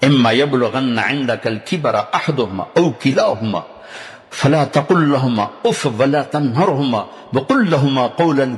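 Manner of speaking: melodic chanted tilawat, unhurried; Quranic recitation. Acted. Preacher recites the verse on parents to congregation, chanted Quranic recitation.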